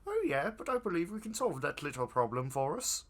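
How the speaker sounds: scheming cult member voice; cultist voice. Acted. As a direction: plot it like a sly cultist. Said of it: "you switch cultist voices".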